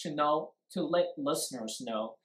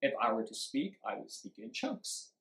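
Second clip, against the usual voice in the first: two smooth chunks, the second softer; speaking in chunks; 4 dB quieter than usual. Shown as a demonstration. Teacher repeating the chunking example, two linked word groups. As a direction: link the words, dividing only after "speak". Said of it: "How, how many chunks was that".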